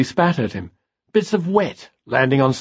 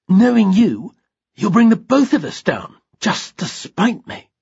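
angry; 8 semitones higher than usual. Acted. Straining to hold Simon, angry.

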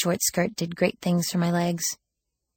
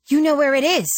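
high, loud burst of realization; worked-up exclamation; 10 semitones higher, 7 dB louder than usual. A narrator's reading. Girl seizing on the woman's slip, worked up and exclaiming. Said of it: "I exclaimed, too worked up".

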